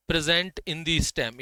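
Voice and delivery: very slow, word by word; slow dictation. Shown as a demonstration. Teacher dictating a note to students, very slow. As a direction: read it out slowly for notes. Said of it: "इसको भी अच्छे से लिखना".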